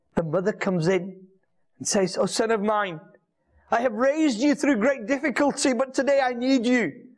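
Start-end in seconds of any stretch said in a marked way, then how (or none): 2.2-7.0 acted, tearful, pleading voice, talking through crying. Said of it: "And she's crying and she's upset".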